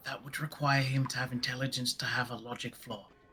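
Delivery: hushed whisper. Leaning in close to another character in the game: whispering. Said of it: "I lean in and whisper to Marlon".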